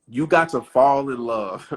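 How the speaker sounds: slow, deliberate reading of the line; savoring each word of the text. Shown as a demonstration. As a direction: drag it out like a quote off the page. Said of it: "But I wanna read this".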